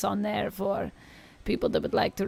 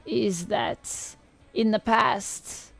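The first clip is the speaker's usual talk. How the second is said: lightly voiced old Eastern European witch reading tarot; a hint of a crackly Eastern European crone; tarot reading in a mild Eastern European witch accent. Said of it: "I'm doing an old Eastern European witch voice".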